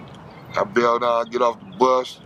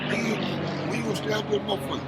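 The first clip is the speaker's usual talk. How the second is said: softer, half-whispered voice; retold hushed warning; 10 semitones higher, 6 dB quieter than usual. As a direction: drop to a hush as if others could hear. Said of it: "He like".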